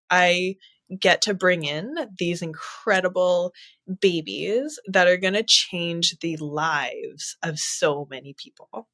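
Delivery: softly moved, holding back emotion; getting emotional. Real, not acted. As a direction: let the feeling well up softly. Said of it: "if I'm gonna get emotional".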